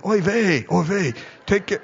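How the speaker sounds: put-on a light, joking Jewish accent; playful imitation of a Jewish accent; mock Jewish accent. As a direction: toss off an oy vey in a hint of a Jewish accent. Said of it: "Then they said it with a Jewish accent".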